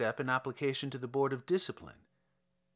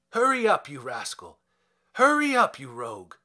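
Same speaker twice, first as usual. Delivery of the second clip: shouting; 5 dB louder than usual. Acted. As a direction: shove him along with shouts. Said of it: "prodded him in the back and shouted".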